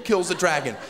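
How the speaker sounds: normal talking voice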